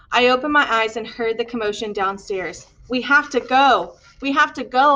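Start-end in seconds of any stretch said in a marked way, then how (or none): 2.9-5.0 urgent calls, a bit louder; rising urgent call to leave; excited call. Acted. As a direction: hurry everyone out the door. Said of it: "an excited voice called".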